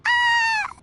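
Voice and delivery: high startled oh; caught off guard. Acted. Girl asked if they are adepti in disguise, startled and caught off guard. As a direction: jolt up at being found out.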